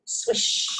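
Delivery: breathy whooshing swish; a quick whispered swish; swish sound. Shown as a demonstration. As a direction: sweep it open like curtains. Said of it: "like opening the curtains".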